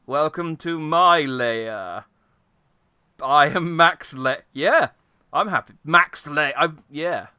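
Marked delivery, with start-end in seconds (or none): 0.1-4.4 slow menacing villain drawl; Bond villain. Pretend. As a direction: lean into a slow evil welcome. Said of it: "villain in, like, a Bond movie".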